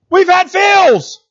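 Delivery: high, slow, loud proclamation; slow rising preacher's cry; preaching shout. Real, not acted. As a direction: hammer it out to the whole room. Preacher driving point home.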